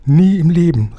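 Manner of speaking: high, loud, panicked refusal; frightened cry. A narrator's reading. Giant recoils from visiting the dragon, frightened high cry. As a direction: yelp it out in sudden terror. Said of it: "rief der Scheinriese erschrocken".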